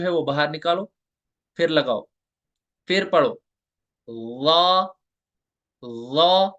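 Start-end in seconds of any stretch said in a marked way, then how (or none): 4.1-6.5 ला said full and heavy, back of tongue raised. Shown as a demonstration. Teacher demonstrating a heavy ला to students. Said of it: "ला को पुर पढ़ना है".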